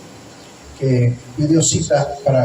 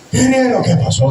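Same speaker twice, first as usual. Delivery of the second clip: worried; 6 semitones higher than usual. Retold or imitated. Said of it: "estaba toda preocupada".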